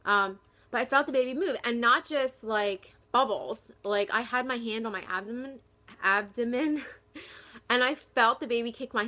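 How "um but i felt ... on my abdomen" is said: excited. Real, not acted. Excited about baby kicking.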